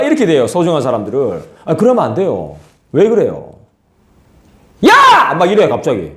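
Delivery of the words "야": very high, loud sudden yell. Acted. Preacher acts out suddenly yelling at a loved one. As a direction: yell out of nowhere.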